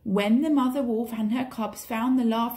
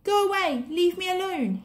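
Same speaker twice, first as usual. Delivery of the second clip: put-on frightened boy; 8 semitones higher than usual. A narrator's reading. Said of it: "he said to the snake".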